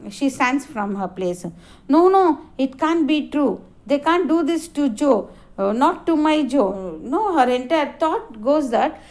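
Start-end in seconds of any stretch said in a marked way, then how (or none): 1.9-7.0 mild alarm. Acted. Wife sees the pliers.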